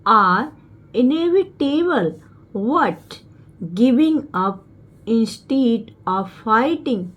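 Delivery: slow, word-by-word English reading; slow reading aloud. Shown as a demonstration. Teacher reading the motivation paragraph to students, slow and deliberate. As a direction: read it out slowly for the class, word by word.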